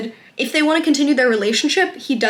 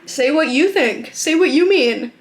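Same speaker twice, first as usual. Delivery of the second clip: raised, exasperated mock quote; mocking boyfriend. Vlogger mocking the passive boyfriend, exasperated and raised. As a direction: push the words up in frustrated mockery. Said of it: "And he's like".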